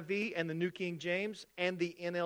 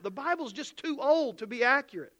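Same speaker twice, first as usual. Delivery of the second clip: mock skeptic; 4 semitones higher than usual. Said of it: "It goes something like this".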